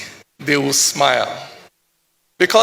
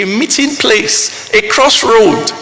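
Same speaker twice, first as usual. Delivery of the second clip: the repeat hit louder and slower; swelling, slowed declamation; 3 semitones higher, 6 dB louder, slower than usual. Acted. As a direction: land the repeat with weight. Repeated phrase, stronger.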